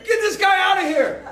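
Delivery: high mock shout at the guard; retold yell. Wrestlers telling security to remove the pastor, high mock yell. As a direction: call for the guard, half laughing. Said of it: "They started yelling at the security guard".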